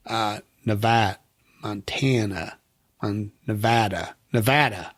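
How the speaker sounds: Nevada with the flat a of Montana; the a of Nevada like in cat; Montana vowel. Shown as a demonstration. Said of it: "same vowel as the A's in Montana".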